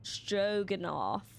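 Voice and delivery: slow Stroganoff ending on a rise; practising the name. Shown as a demonstration. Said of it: "stringy knot crewman".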